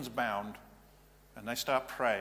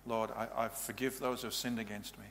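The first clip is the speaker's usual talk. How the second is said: soft prayer; 5 dB quieter than usual. Shown as a demonstration. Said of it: "rededicate their lives to Jesus Christ in a simple prayer".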